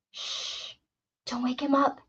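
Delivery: put-on soft, whispered plea of a frightened child; child's mournful whisper. A narrator's reading. A frightened child begging Eddie not to wake Blaine, whispering. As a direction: mourn it softly, barely voiced. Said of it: "the child's voice mourned".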